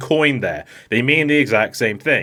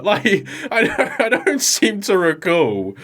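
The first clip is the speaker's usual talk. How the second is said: mock puzzled; 7 semitones higher, slower than usual. Real, not acted. Laughing mock confusion.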